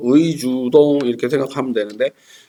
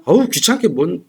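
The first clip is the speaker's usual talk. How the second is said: grumpy refusal; 6 semitones higher than usual. Retold or imitated. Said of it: "이러면 이제 싸우죠".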